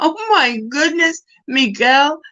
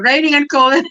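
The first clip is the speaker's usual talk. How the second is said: mock forecast; 3 semitones higher, 3 dB louder than usual. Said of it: "I'll do my own weather".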